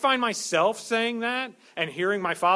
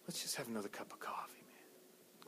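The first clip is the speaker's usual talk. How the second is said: mock sleepy mumble; 4 semitones lower, 19 dB quieter than usual. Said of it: "Be up there going".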